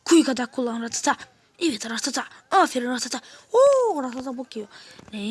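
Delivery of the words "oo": surprised oh. Real, not acted. Surprised at a sudden event.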